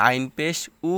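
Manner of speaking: উ as a plain vowel, like hamza; plain open উ after আইন; wrong pronunciation. Shown as a demonstration. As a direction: say আইন পেশ উ without any throat squeeze. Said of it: "এরকমভাবে উচ্চারণ করা যাবে না".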